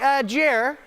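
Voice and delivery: a hint of a reasonable adult stopping him, high through laughter; mock parent gently reining him in; imagined adult intervening. Speaker voicing an imagined adult, mild mock caution. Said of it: "be like".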